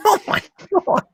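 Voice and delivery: very high shouted exclamation; real high-pitched astonishment; amused shock. Real, not acted. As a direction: cry out, overwhelmed by the scene. Reaction to the killing.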